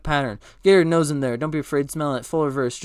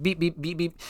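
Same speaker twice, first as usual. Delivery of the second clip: softer spoken beeping noise; imitated beeps; 6 dB quieter than usual. Pilot fumbling with the controls, imitated beeps. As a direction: beep softly like a machine.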